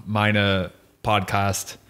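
slow, deliberate German, like opening a show; welcoming listeners in slow German; mock German podcast intro. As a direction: announce the guest in careful German, slowly. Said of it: "all I could think was".

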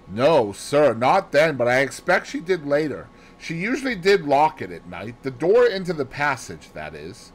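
a hint of a chatty maid; flustered maid Annie explaining. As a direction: tell it as an eager servant girl.

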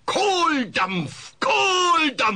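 yelling awake. Acted. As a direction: shout him out of the dream. Nightmare wake-up yell. (immer lauter werdender Schrei)

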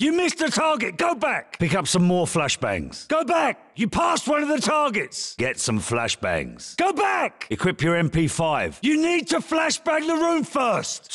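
high yelled orders at the trainee; shouted corrections. Acted. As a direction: bark the mistake back at him. Instructor correcting recruit mid-drill.

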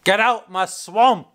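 slow, lightly voiced ogre line; a hint of Shrek guarding his swamp; Shrek impression. Showing viewers how Shrek says it, slow and lightly voiced. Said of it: "That's how he says it".

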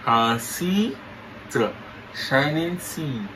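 talking with mouth held open; words through a propped-open mouth. Pretend. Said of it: "you say you're not pronounce good".

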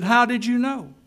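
high, loud, stunned question; trembling amazement. A narrator's reading. Husband learns his lost wife is alive, asks in trembling amazement. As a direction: ask it in shaken disbelief. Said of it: "the man began to tremble".

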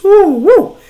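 high, loud woo woo; excited whoops. Real, not acted. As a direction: cheer it out like a fan. Celebrating billion dollars.

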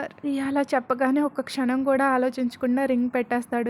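plain reading voice

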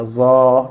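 زا thickened as ظ; heavy za. Shown as a demonstration. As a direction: make زا heavy. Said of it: "تو یہ زا پڑھا جائے گا". (زا کو ہلکا سا موٹا کریں)

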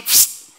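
short sharp "pst" sound effect; imitated "pst" noise. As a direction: make a quick mouth noise for the action. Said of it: "sacó así".

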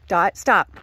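firm loud stop to the dog; sharp command. Real, not acted. Owner stopping her dog, sharp loud command. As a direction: bark the dog's name to halt her.

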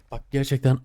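loud, raging shout; furious shout. Real, not acted. Gamer raging at his broken trap, furious shout. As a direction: explode at the screen. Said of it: "ısıracağım şu an".

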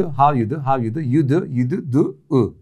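a mock slurring of How do you do into u; clipped mock. Shown as a demonstration. Joking about English shrinking over the years, playfully clipped. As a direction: shrink the phrase bit by bit, playful. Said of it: "En sonunda iki bin kırk u".

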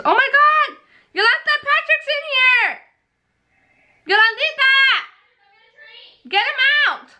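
shrill alarmed yelling, very high; high-pitched shriek. Real, not acted. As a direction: yelp in alarm at the dog. Sister's dog runs into room.

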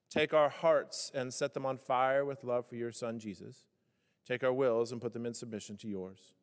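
earnest, measured pulpit prayer. Acted. Pastor leading the congregation in prayer, earnest and steady. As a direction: pray aloud for the whole room, unhurried.

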